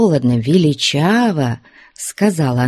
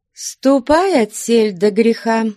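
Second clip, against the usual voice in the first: stern warning; 7 semitones higher than usual. A narrator's reading. Flyonushka warns Ustinya.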